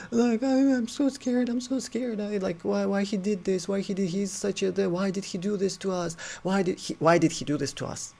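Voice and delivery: very high, whimpering imitation of crying; mock crying. Friends crying over their own fright, mock crying. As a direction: wail it high, gradually easing down. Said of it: "crying, crying. They're like".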